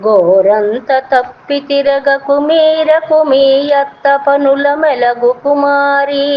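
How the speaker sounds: slow, sing-song chanting of a classical verse; slow chanted Telugu poem; poem recitation. Acted. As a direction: intone the padyam slowly and evenly, like a recital.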